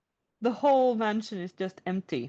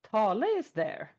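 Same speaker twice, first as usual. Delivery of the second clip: usual speaking voice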